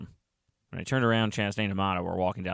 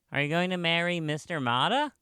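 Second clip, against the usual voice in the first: put-on higher-pitched child's voice; nosy pupil; 8 semitones higher than usual. A narrator's reading. Pupil quizzing Miss Chastain on marriage, nosy. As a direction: ask it as a curious kid, high. Child interrogates guest in story.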